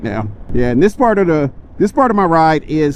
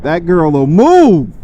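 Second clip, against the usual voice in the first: excited; slower than usual. Real, not acted. Right after hard acceleration.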